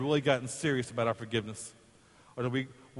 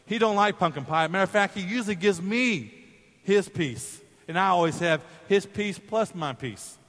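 smug sister; 5 semitones higher, 3 dB louder than usual. Retold or imitated. Sister steals his pie.

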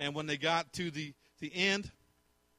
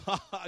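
brief, understated mocking laugh; lightly put-on scornful "ha ha"; malicious laugh; 4 semitones higher than usual. God answering Satan over Job, mild malicious laugh. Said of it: "God had that malicious laugh".

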